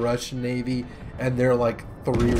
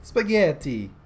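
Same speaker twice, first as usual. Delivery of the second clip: loud, high, drawn-out cartoon Italian; exaggerated Italian exclamations, stretched out and pitched up; mock Italian accent; 7 semitones higher, 5 dB louder, slower than usual. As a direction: ham up a generic Italian accent. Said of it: "Generic Italian shit".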